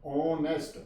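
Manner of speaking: ऑनेस्ट starting straight on the O; silent H. Shown as a demonstration. Teacher showing how honest starts, silent H. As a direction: say ऑनेस्ट as "on-est", no H. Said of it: "ओ से शुरू करेंगे इसके".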